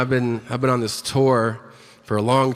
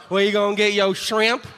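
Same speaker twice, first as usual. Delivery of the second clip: mock Cajun; 5 semitones higher than usual. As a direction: put on a Cajun accent to sneer. Mocking Cajuns' contribution in their accent.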